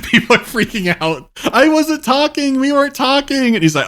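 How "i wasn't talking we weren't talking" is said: put-on protesting kids. Crying kids tell the substitute they weren't talking, protesting. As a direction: imitate upset children pleading innocence, pitched way up.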